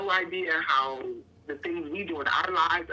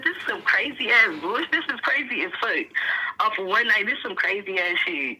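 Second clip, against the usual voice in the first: excited retelling; 3 semitones higher, 5 dB louder than usual. Retold or imitated. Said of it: "I said".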